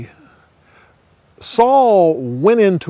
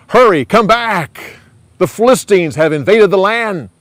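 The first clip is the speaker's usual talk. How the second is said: urgent messenger; 7 semitones higher, 6 dB louder than usual. Acted. Messenger urgently calls Saul back.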